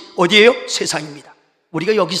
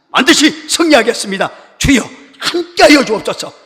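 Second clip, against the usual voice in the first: Martin Luther praying; 2 semitones higher than usual. Retold or imitated. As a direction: cry out to God with mounting resolve. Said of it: "벌떡 일어나서". (결연하게 부르짖는 기도)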